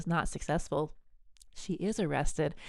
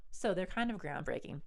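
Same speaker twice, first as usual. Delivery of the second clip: conspiratorial whisper, voice dropped away; a quick hushed aside; 7 dB quieter than usual. Real, not acted. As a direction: lean in and breathe it like a secret.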